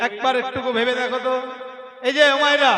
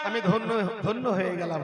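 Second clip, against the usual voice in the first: Radharani's rapture; 5 semitones higher than usual. Acted. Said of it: "আমার রাধারানী বলছে".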